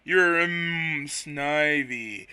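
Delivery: slow, drawn-out voice with hums; lazy, unhurried, humming between words; a light take on a slow sleepy Quagsire. Acted. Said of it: "a really slow voice".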